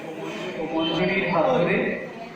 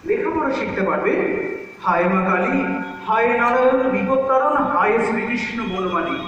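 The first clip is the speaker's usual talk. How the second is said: grandparents arguing; 5 semitones higher than usual. Acted. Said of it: "সেই দুপুরের তর্ক নিয়ে".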